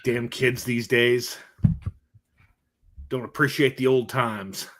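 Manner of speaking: slow, lightly voiced old-timer grumble; mock grumpy old man. Cohost grumbling like an old man about kids. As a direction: drag it out like a cranky elder.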